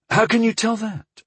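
high, puzzled question; mystified. A narrator's reading.

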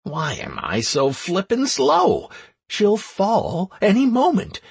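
fretting under pressure; anxious. Acted. Hero frets as woman hangs.

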